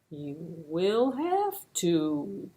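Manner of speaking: slow, plodding tortoise voice. Acted. Slow tortoise offering to try, slow and steady. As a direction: drag the words out like a tortoise.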